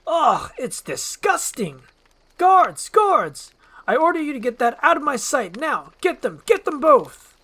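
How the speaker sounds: very high, very loud furious shriek; high enraged yell; screaming Farquaad. Acted. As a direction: shriek for the guards in outrage.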